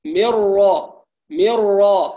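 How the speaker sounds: من را with flat lips at the ra; lips unrounded at ra. Shown as a demonstration. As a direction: demonstrate the correct unrounded ra. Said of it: "هكذا". (من را بدون ضم الشفتين)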